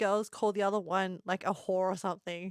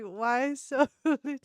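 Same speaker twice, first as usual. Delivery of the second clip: 1 laughing quote; 2 semitones higher, much slower than usual. Retold or imitated. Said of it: "they're like".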